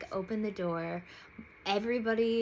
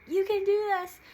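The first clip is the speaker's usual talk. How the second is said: encouraging; 13 semitones higher, 10 dB louder than usual. Retold or imitated. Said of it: "she was so nice".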